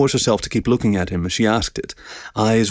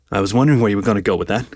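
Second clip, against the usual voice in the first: bemused; faster than usual. Acted. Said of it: "he said bemusedly".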